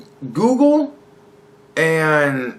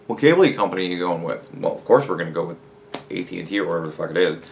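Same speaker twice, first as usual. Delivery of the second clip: mocking cable customer; 11 semitones lower, 5 dB quieter, much faster than usual.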